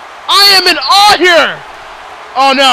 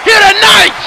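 fired-up hype; 3 semitones higher than usual. Real, not acted. Commentator tells ladies and gentlemen Haru made a statement, hyped. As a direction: sell the moment to the arena.

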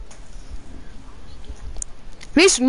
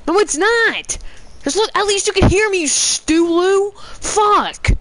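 raging gamer; 6 semitones higher than usual. Real, not acted. Arguing angrily with teammate.

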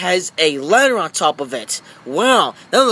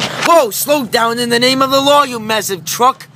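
a higher, slightly put-on policeman voice; toy policeman; 5 semitones higher than usual. Policeman toy scolds the truck, mock stern. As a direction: play the policeman stopping the truck.

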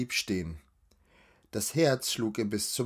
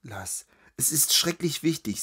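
unvoiced, pressing whisper; urgent whisper; 4 semitones higher than usual. A runaway girl begging her friend in secret, urgent whisper. Urgent plea hidden in litter.

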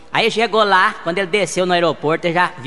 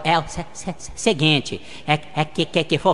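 slow stammer on each syllable; stuttering Gaguinho; 4 dB quieter, slower than usual. Acted. Friend on the phone stammers a greeting. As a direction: trip over the first syllable, then push through. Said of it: "O Gaguinho".

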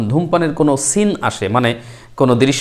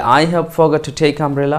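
slow model sentence; 2 semitones higher, much slower than usual. Shown as a demonstration. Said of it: "তাহলে".

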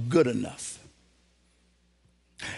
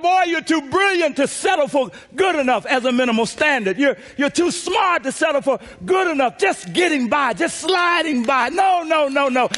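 preaching exhortation; 5 semitones higher than usual. Retold or imitated. Uncle exhorting nephew.

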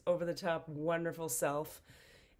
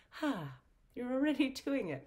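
laughing, higher playful card voice; 7 semitones higher than usual. Pretend. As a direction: laugh through the line.

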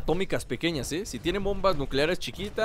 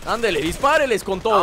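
urging on; 4 semitones higher, 5 dB louder than usual. Real, not acted. Anima al compañero a disparar.

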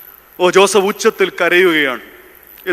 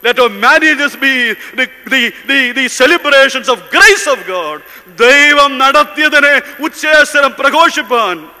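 impassioned preaching; 5 semitones higher, 3 dB louder, slower than usual. Real, not acted. Preacher challenging young listeners to give up lavish weddings, impassioned. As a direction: preach with rising, emphatic calls.

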